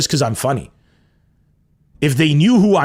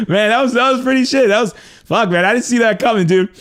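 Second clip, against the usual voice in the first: amused shrug-off; 7 semitones higher than usual. Retold or imitated. Shrugs off the loss with a laugh.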